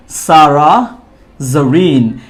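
"সারা জরিন" slowly, with s and a buzzing z; correct name pronunciation. Shown as a demonstration. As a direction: model "সারা জরিন" as "Sara Zareen", in two parts. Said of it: "তাহলে ওনার নামটা হবে".

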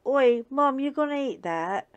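dog George mooching food from mommy, high and eager; voicing the dog George. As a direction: beg for food like a cheeky dog. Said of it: "exactly the way he sounds to me".

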